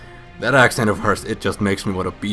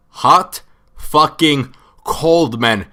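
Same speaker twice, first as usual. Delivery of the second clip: slow, loud, stretched-out name; drawn-out exclamation; 6 semitones higher, 9 dB louder, much slower than usual. Real, not acted. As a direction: draw out the name loudly in disbelief.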